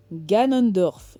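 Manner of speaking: slow, loud, drawn-out name; dramatic reveal. Acted. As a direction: announce the villain's name slowly and loudly.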